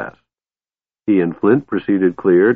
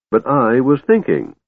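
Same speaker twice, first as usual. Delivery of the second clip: higher, airy and superior; loftily; 5 semitones higher than usual. Acted. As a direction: act above the question. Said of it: "Tass said loftily".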